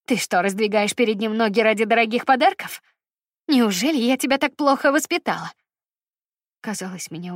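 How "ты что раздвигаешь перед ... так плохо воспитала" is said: a shamed mother lashing out at her daughter; scornful scolding. Acted. Mother scolds daughter over gifts.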